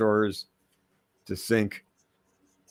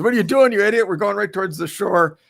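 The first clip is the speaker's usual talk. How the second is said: high, loud angry pirate shout; skull pirate yelling; 10 semitones higher, 6 dB louder, faster than usual. Retold or imitated. Skull pirate yelling at the enamored captain, high and loud. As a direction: bark at the captain like a frantic skeleton pirate.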